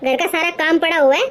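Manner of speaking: scolding mother-in-law. Acted. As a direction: bark at the lazy daughter-in-law. Mother-in-law rebukes son. (ग़ुस्से में डाँटती सास)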